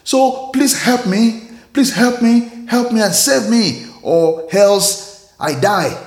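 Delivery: begging to be saved, pitch pushed up; desperate plea. Acted. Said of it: "And the man replied".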